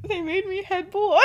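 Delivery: high, helpless giggly announcement; laughing disbelief. Acted. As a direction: break into laughter telling mom the news. Son tells mother, teller laughing.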